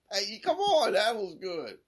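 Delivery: loud high plea, dropping as it goes; high-pitched protest. Real, not acted. Comedian defending a joke that fell flat, high protest. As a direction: plead loudly up high for some credit.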